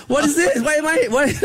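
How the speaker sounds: high, outraged disbelief at the delivery; indignant disbelief. Retold or imitated. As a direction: customer pitching up in disbelief at a bathtub. Indignant customer.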